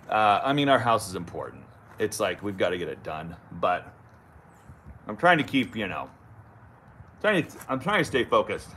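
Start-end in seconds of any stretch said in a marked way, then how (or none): 5.1-8.7 talking around a pipe in the mouth; words round a pipe stem; tobacco in mouth. Real, not acted. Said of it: "I'm trying to talk with tobacco in my mouth".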